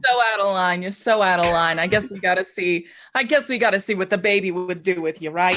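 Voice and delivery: lightly voiced thirties gangster goon; gangster henchman. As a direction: challenge the intruder like a stereotype gangster heavy. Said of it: "nineteen thirties gangster stereotypes".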